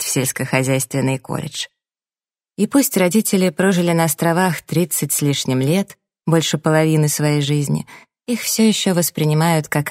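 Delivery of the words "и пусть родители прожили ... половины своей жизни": ordinary delivery, nothing marked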